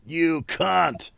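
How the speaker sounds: high, hammed-up British accent. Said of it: "via the Brits".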